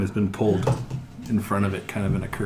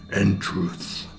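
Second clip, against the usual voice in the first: alien voice; 4 dB quieter than usual. Acted. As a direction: end the demand with cold finality. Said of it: "that loud alien voice you heard before booms out".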